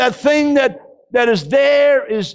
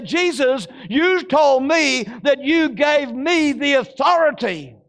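bold confession; 3 semitones higher than usual. Shown as a demonstration. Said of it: "you gotta stand up and you say".

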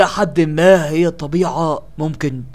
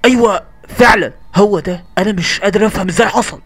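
shocked; 8 semitones higher, 9 dB louder than usual. Acted. Shocked at the body.

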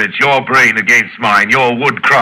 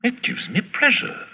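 relishing whisper; 8 dB quieter than usual. Acted. Villain savouring his cruelty.

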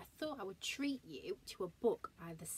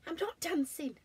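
bear voice; 9 semitones higher, 4 dB louder than usual. Acted. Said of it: "said Alan".

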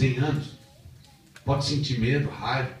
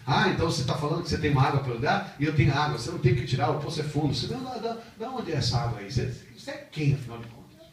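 higher, defiant paraphrase; mocking Samaritan woman; 4 semitones higher than usual. Preacher acting the woman confronting Jesus, defiant. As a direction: taunt him with disbelief. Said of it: "ela começa a afrontar Ele".

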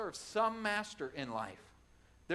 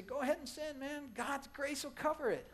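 tempting Satan; 9 semitones higher than usual. Retold or imitated. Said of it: "Satan will come and tempt us, and he'll say".

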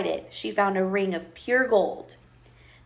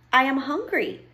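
higher-pitched princess; pleading princess; 4 semitones higher than usual. Acted. Lost princess appeals to the witch, pleading. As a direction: announce your trouble in a high voice.

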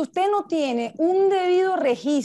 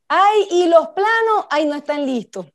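mock dismay; 2 semitones higher, 5 dB louder than usual. Worker finding the plans aren't ready, mock dismay. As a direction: act out a dismayed worker discovering a snag.

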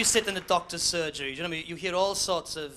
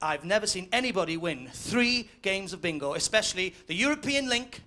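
bingo caller. Acted. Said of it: "says the bingo caller".

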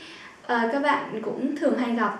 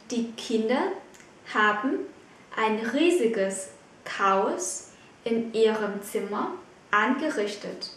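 slow; slower than usual. Shown as a demonstration. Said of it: "teacher repeats sentence slowly".

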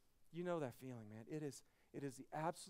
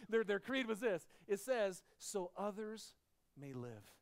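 louder, punchy declaration; emphatic proclamation; 3 semitones higher, 7 dB louder than usual. Real, not acted. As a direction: proclaim the creed with force. Pastor proclaims creed emphatically.

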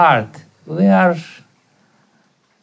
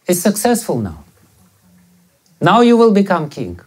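raised, pointed reproach; accusing; 3 semitones higher than usual. Retold or imitated. Grieving Kaushalya confronts Bharata about the throne, accusing. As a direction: accuse him with bitter emphasis. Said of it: "she started accusing him".

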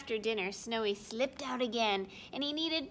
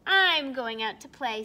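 louder, eager little bear; eager kid voice; 10 dB louder than usual. Acted. Snowy telling Mommy he's going out, eager. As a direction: call it out as you run off. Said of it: "Snowy said".

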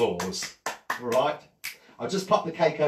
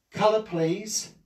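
magic words; 5 semitones higher, 3 dB louder, slower than usual. Shown as a demonstration.

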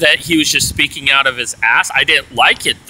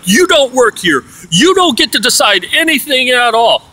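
scolding; 7 semitones higher than usual. Retold or imitated. Roommate telling him he has no say, mock scold. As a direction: put him in his place.

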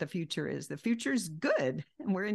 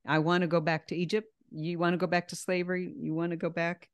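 mock complaining; faster than usual. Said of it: "their complaining was what they were saying".

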